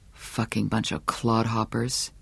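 low, soft muttered curse; under his breath. A narrator's reading. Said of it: "he said under his breath".

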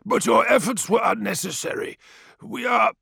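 high, thin elder's voice; old village elder. A narrator's reading. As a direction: voice the frail elder Tefra. Narrator voices elder Tefra.

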